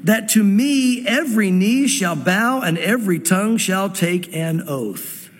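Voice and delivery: slow, deliberate reading of the verse; slow scripture reading. Acted. Preacher reading Isaiah aloud to the congregation, slow and deliberate. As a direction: let each phrase land, unhurried.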